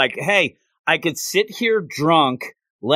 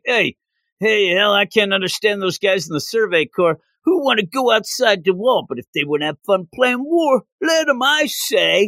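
mock drunk heckler; 5 semitones higher than usual.

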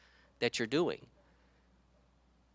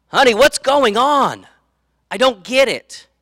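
much higher and louder, a flustered wife's voice; confused wife; 9 semitones higher, 9 dB louder than usual. Acted. Wife asking her husband mid-service, high, loud and flustered. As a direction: play the puzzled wife tugging at her husband.

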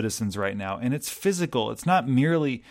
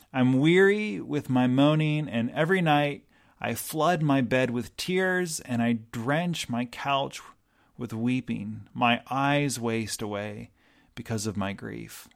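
slow mournful scripture reading. Acted. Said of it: "He says".

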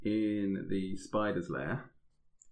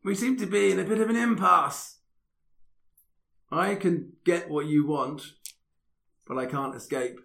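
weedy little voice; 5 semitones higher than usual. Acted. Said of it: "a weedy little voice".

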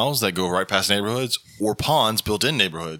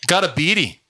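higher-pitched bad Australian accent; attempted Australian accent; 8 semitones higher than usual. Friend imitating their mate's Australian accent, off-target Australian accent. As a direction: have a rough go at Australian, landing near Irish. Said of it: "how you say it in his Australian accent".

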